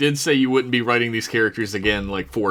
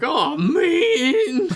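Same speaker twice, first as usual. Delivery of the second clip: put-on high yelping redneck accent, Oh, man; 3 dB louder than usual. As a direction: wail it in a weird redneck accent. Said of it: "in a weird redneck accent".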